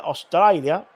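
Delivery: badly faked Australian twang on the place name; botched Australian accent. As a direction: try an Australian accent and miss. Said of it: "that is not even an Australian accent".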